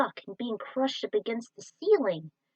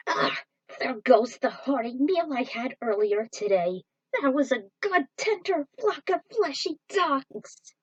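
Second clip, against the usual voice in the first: lightly voiced mutant, higher and slow; queasy mutant; 4 semitones higher, 4 dB louder than usual. Nauseous mutant moaning about the lost meal, mildly voiced. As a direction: moan over the lost lunch.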